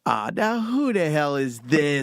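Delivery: slow, drawn-out disbelief; mock suspicion. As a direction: stretch it out, as if smelling a prank call. Retold suspicion of a prank caller.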